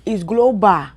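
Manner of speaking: "global" with a Ghanaian "-bah" ending; Ghanaian accent. Shown as a demonstration. Speaker repeating "global" for African listeners, Ghanaian accent. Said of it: "In Ghana, we will say global".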